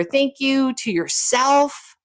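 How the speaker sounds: slow, tender thank you; slow self-thanks. Shown as a demonstration. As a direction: savor each word like a hug.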